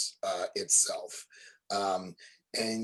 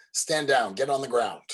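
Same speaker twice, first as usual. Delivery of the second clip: loud, barked order; goons ordering; 4 semitones higher, 6 dB louder than usual. Acted. Panda goons order the party to surrender, loudly barked. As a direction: bark it like an armed guard. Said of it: "they both pull out guns, and they say".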